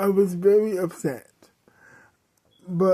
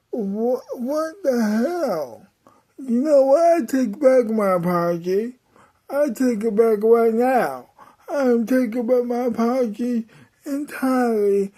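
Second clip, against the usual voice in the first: a hammed-up tearful tantrum at her dad; outraged yelling; 4 semitones higher than usual. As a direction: shriek it at your parents in disbelief. Kid catches parents kissing.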